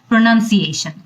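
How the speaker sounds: pronounced pronunciation with a clear nown sound; correct pronunciation. Shown as a demonstration. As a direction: say প্রোনাউন্সিয়েশন with নাউন as nown. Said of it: "যখন প্রোনাউন্সিয়েশন বলি". (শুদ্ধ উচ্চারণে প্রোনাউন্সিয়েশন)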